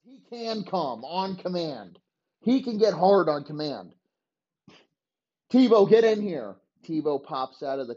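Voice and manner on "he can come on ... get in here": higher, eager coach laying out a crazy plan; a lightly raised, wheeling-dealing coach; scheming coach voice. Retold or imitated. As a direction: sell the scheme like a hyped head coach. Voicing Urban Meyer pitching plans.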